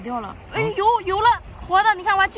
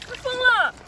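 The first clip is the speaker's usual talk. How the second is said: startled yelp; 9 semitones higher, 4 dB louder, slower than usual. Real, not acted. Sea creature suddenly thrashes.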